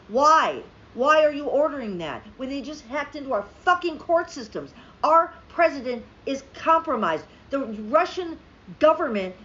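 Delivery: a rant boiling over at the president; angry, exasperated rant; furious. Real, not acted. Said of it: "I'm so furious right now".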